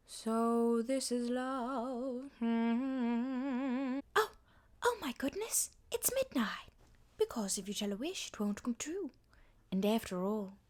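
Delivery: sweet wide-eyed ingenue; breathy fifties Disney princess; Cinderella voice. Acted. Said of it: "explain how I do Cinderella".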